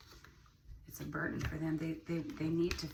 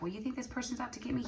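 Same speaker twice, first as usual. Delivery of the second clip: voicing the person; 7 semitones higher, faster than usual. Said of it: "they're like".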